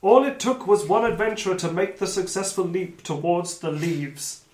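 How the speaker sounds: emphatic storytelling read; game master narration. Acted. Game master telling players the leap worked, emphatic narration. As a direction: announce the outcome like a storyteller. Reads the outcome.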